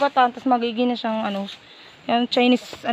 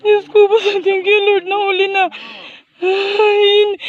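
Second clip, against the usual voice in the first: crying with relief that it's caught; teary relief; slower than usual. Real, not acted. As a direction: voice wet with real tears. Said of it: "naiiyak ako".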